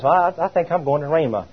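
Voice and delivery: a hint of timid, halting Bobby; unsure young man. Pastor imitating shy young Bobby, mild hesitant stammer. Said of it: "he started talking like this".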